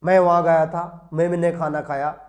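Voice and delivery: heavy voice demo; deep heavy voice. Shown as a demonstration. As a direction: drop into a heavy, booming voice. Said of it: "भारी होगी".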